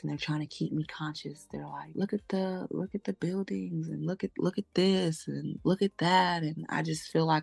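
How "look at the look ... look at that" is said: lightly voiced coaxing paramedic, a touch higher; talking to a child. Paramedics keeping me conscious, mild coaxing child-talk. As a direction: coax gently like a parent pointing out sights to a child. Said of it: "like I'm being talked to, coached".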